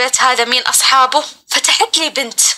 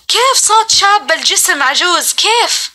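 retold disbelief, pitched higher; lightly acted incredulous wondering; bewildered questioning; 4 semitones higher than usual. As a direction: ask it in mild astonishment, rising above usual pitch. Retells her bewildered thought.

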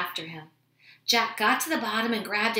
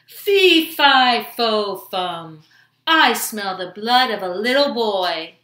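giant's shout; 11 dB louder, slower than usual. A narrator's reading. Greedy giant sniffs out a boy in the kitchen, shouting. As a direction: boom it out like a storybook giant. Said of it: "the giant shouted".

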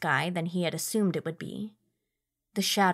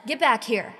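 calling out; 5 semitones higher, 4 dB louder than usual. A narrator's reading. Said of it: "he called".

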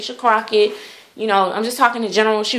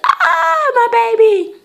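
sudden high gasp of alarm, louder; alarmed cry; 14 semitones higher, 4 dB louder, slower than usual. Retold or imitated. Mother gasps as her doll falls over, high alarmed cry. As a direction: cry out as the baby tips over. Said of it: "I was like".

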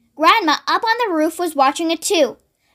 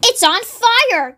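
high, drawn-out alarm call; storyteller's light yell; 6 semitones higher, slower than usual. A narrator's reading. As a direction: raise the alarm, stretching the words. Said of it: "Grandma yelled".

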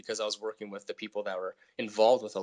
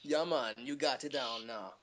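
put-on Jamaican accent; 2 semitones higher, 4 dB quieter than usual. Playful Jamaican accent after reggae tale.

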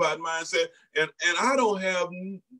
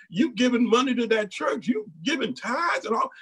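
higher, mocking jeer; a hint of scoffing church critics; scoffing folks; 5 semitones higher than usual. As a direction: imitate the scoffers. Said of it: "Like some folks say".

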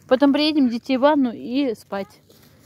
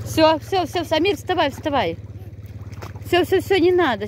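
raised, urgent call; 4 semitones higher than usual. Real, not acted. Calling child out of water.

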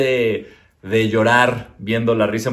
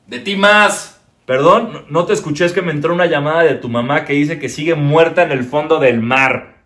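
louder puppet voice, pitched up; puppet jab; 3 semitones higher, 4 dB louder than usual. Acted. Puppet mocking the comedian about his mother, loud. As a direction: jab back as the cheeky puppet.

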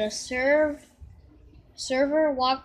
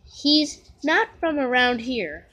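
louder, matter-of-fact helper; Whisper explaining; 6 dB louder than usual. Acted. Whisper explains to Nate that Komasan is from the country, a touch louder. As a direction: explain it plainly to the boy. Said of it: "Whisper explained".

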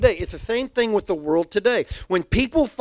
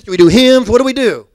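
mock loud hymn style; 3 semitones higher, 11 dB louder than usual.

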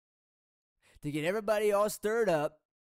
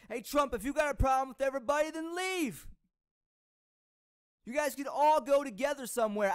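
frustrated outburst; 4 semitones higher than usual. Real, not acted. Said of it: "I'm upset and I'm frustrated".

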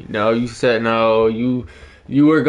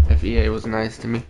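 quick muttered repeat; hurried throwaway repeat; fast repeat; faster than usual. Real, not acted. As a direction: rattle it off fast under breath.

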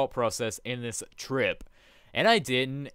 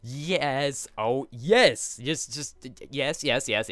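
excited yes; 2 semitones higher, 5 dB louder, much slower than usual. Real, not acted. Celebrating diamonds.

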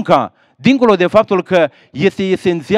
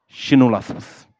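put-on grieving old mother. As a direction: let the grief of forty years weigh on it. Old mother explains her tears.

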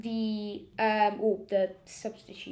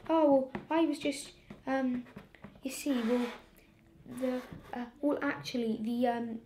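flustered teacher; 2 semitones higher than usual. Retold or imitated. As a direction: stumble over a lame excuse.

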